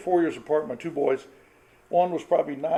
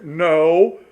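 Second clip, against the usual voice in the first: loud, firm no; mother's loud no; 8 dB louder than usual. Retold or imitated. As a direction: put your foot down with a loud no. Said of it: "it gets louder and louder".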